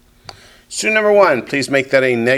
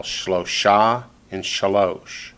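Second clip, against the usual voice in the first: Shlosha and Shalosh accented on their final syllables; slow, end-stressed Shlosha and Shalosh; stress on last syllable; much slower than usual. Shown as a demonstration. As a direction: slowly lean on "sha" in Shlosha and "losh" in Shalosh. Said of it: "they all accent the last syllable".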